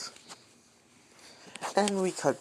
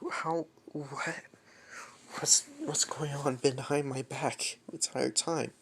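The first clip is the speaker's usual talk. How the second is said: softer, hushed tearful whisper; 5 dB quieter than usual. Acted. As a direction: half-whisper through tears, lost. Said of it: "she's crying and trying to".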